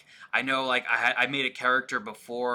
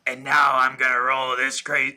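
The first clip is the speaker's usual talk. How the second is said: mock role-player intro; 5 dB louder than usual. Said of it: "It was like".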